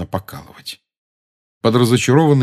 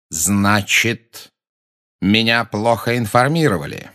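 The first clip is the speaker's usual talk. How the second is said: cold rasping evil emperor; 3 semitones higher, slower than usual. A narrator's reading. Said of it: "высоким, холодным голосом, в котором пульсировала ярость".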